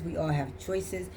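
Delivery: slow and hushed, driving the point home; slow, quiet emphasis. Shown as a demonstration. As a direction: let it sink in quietly. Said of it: "repeats for emphasis".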